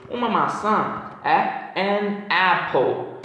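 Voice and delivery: slow example phrase. Shown as a demonstration. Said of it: "só pra dar esse exemplo".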